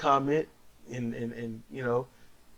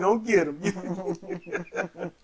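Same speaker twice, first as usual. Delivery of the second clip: mock soothing baby talk. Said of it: "it's like".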